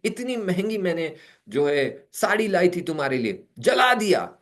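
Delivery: husband scolding wife over the burnt sari. Retold or imitated. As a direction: berate her for the expensive sari. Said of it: "ये डांट रहा है".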